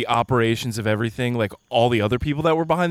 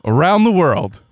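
ringmaster. Pretend. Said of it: "I have a little intro that I wanted to do".

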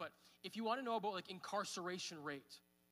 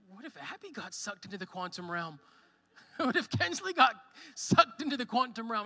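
laughing worry; 3 semitones higher, 11 dB louder than usual. Retold or imitated. Father imagining his daughters lost.

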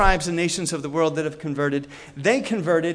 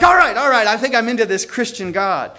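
loud, higher burst of giving in; acted convinced king; 3 semitones higher, 5 dB louder than usual. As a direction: play a king loudly coming round. Edwin gives in to conversion.

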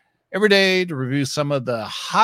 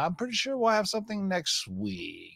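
whisper; 6 semitones higher, 5 dB quieter than usual. Real, not acted. Teasing a drop next week.

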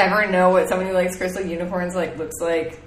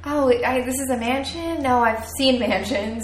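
snooty shade. Retold or imitated. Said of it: "Brooke was just like".

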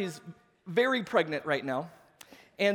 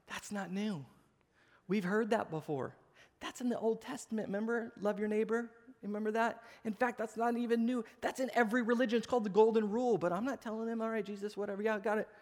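softer, mock-unimpressed muttered objections; dismissive disciples; 4 dB quieter than usual. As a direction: imitate students brushing the teacher off.

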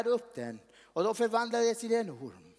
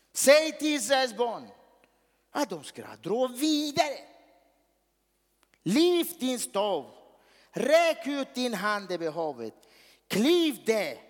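commanding God; 3 dB louder, slower than usual. Acted. Preacher voices God's commands.

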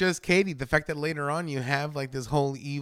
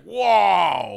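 louder, higher stunned whoa; amazed whoa; 4 semitones higher, 7 dB louder than usual. Retold or imitated. Audience reaction voiced.

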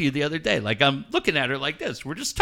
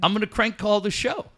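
mischievous friend; 6 semitones higher than usual. Retold or imitated. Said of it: "And Mark says".

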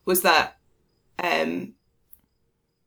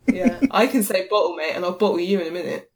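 mock cockney threat; playful cockney accent; cockney tough. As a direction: growl it like a London tough. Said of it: "That's what I say".

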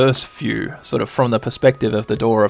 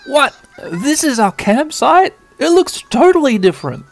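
put-on girly high voice; 12 semitones higher, 4 dB louder than usual. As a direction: squeal out the surprise. Mimi voiced in game scene.

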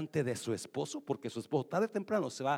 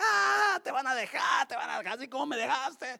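mocking laughter; 9 semitones higher, 6 dB louder than usual. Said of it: "la ex riendo a carcajadas".

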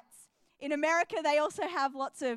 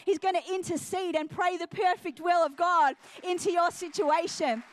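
driving, slightly raised preaching voice; impassioned preaching; 3 semitones higher, 3 dB louder than usual. Real, not acted. Preacher urging church to pray in tongues, impassioned. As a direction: press it home to the congregation.

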